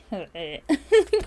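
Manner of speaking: loud rising throat croak; croaky throat noise. Shown as a demonstration. Showing how the tired throat feels, with a croaky noise. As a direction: imitate a hoarse, strained throat. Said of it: "My throat is like".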